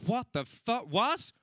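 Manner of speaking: high-pitched mock disbelief; incredulous. Comedian replying to his mother's kidnap message, incredulous. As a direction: let the question leap up in shock.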